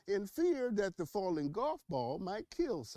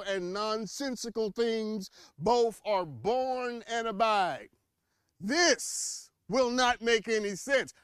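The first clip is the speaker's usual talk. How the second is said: dramatic buildup; 2 semitones higher than usual. Pretend.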